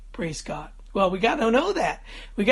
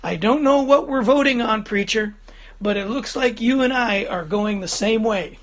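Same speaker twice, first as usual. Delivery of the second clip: retold public reply, loud at the start then easing; lightly projected mock answer to the preacher; loud enough for all. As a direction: speak up as the startled sleeper, mildly. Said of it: "in a voice loud enough for everyone to hear".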